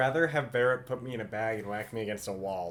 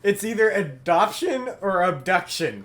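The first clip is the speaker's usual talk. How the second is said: dramatic tagline; 5 semitones higher, 5 dB louder, slower than usual. Acted.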